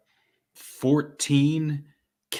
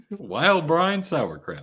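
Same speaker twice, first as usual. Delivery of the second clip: mock ad tagline; 4 semitones higher, slower than usual. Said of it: "brought to you by".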